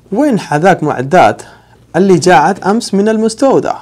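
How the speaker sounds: brisk, fluent Saudi delivery; quick native demo. Shown as a demonstration. Teacher showing how Saudis say it, fast. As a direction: rattle it off like a local. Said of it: "یہاں پہ اس کو ایسے بولیں گے سعودی عربیہ میں".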